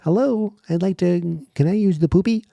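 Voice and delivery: high, loud goofy voice; mock-innocent high-pitched request; silly polite caller. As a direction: pipe up like a silly visitor at the door. Voices killer at stall door.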